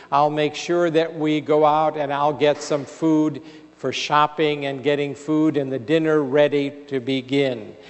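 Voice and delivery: a mild, understated loving comfort; compassionate, soothing voice. Acted. Older woman promising help to a caller she thinks is her daughter, gently soothing. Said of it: "with a very compassionate and loving and soothing voice".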